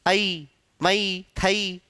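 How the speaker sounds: "आई, मई, थई" drawn out with a glide to ee; slow demonstration ending each on ee; old pronunciation. Shown as a demonstration. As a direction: slowly sound the old a-ee diphthong in "आई, मई, थई". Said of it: "ऐसा बोलते थे".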